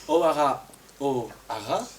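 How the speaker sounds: lightly put-on Irish accent. Boy tells the girl his name, Irish accent. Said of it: "avec un fort accent irlandais".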